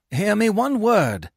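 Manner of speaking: high, slow appeal; pleading. A narrator's reading. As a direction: beg an angry crowd to listen. Menenius begs to be heard.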